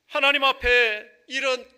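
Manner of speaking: ringing sermon delivery, hammering each phrase; impassioned preaching. Real, not acted. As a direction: preach it at full force, voice lifted high. Preaches at full force.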